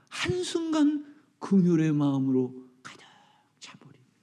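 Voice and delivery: hushed awed whisper; soft whispered climax. Acted. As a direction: sink to a whisper for the moment of compassion.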